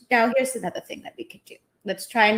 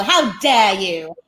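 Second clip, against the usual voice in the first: Greta quote; slower than usual. Retold or imitated. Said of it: "that was a line from our favorite".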